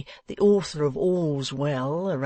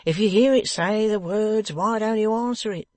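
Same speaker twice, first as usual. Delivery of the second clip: higher, louder sharp retort; snappish; 8 semitones higher, 5 dB louder than usual. A narrator's reading. Venus losing patience with Wegg, snappish. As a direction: snap it back impatiently. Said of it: "retorted Venus snappishly".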